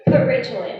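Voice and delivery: cheering shout. Retold or imitated.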